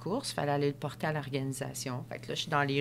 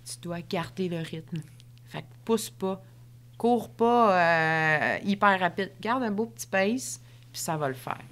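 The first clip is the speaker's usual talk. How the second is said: gentle coaching voice. Retold or imitated. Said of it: "J'avais sa petite voix".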